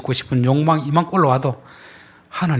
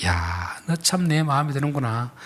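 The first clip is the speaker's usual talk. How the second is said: softer, mildly pleased voice; drawn-out exclamation, then gentle approval; approving God; 6 dB quieter than usual. Acted. Preacher voices God looking at us, softly approving. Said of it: "하나님이 우리를 보실 때".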